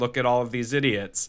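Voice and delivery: ordinary delivery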